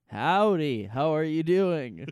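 lightly voiced, loud mock greeting; a hint of a put-on rock star, loud; a singer. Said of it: "and he goes".

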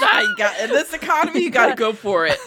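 loud laughing quip; laughing joke. Pretend. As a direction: shout it through laughter. Joking catchphrase.

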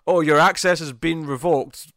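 mildly hammed-up, drawn-out line delivery; imitating a shout. Quoting the character shouting at an alien, mock shout. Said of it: "he shouts out something like".

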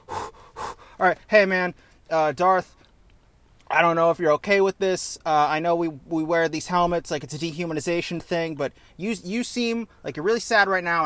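a timid trooper nervously offering his boss a hug; lightly voiced anxious soldier; nervous stormtrooper. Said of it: "a stormtrooper would be like".

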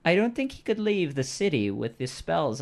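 a hint of the high quest-giver voice; quest-giving character. Quest giver on the gnome's whereabouts, lightly put-on voice.

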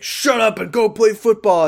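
hammed-up coach yell; gruff coach. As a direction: play the coach snapping at his team. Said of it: "he's like".

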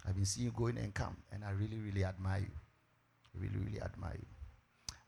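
low, soft, smooth suitor wooing the sister; suitor's proposal. Acted. Man proposing to a church sister, low and soft. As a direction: court her gently, voice dropped low.

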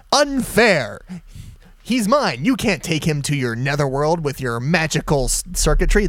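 a bad John de Lancie squeal; hammed-up Q voice crying foul; terrible John de Lancie. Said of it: "That's a terrible John de Lancie".

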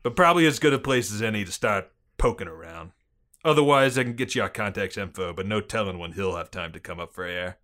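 put-on police chief briefing in a Boston accent; gruff-cop Bostonian, dropped R's. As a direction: lay out the case in Boston cop talk. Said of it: "Excellent Bostonian accent".

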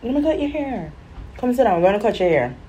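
mock-sweet coaxing; coaxing grandma. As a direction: lure the child to the chair. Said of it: "He's like".

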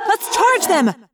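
high, loud, drawn-out battle cry; slow, high-pitched war shout; Rachel yelling. A narrator's reading. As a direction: yell to rally a charge. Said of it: "Rachel yelled".

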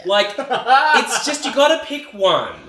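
mock reasonable plea. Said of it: "this is like saying".

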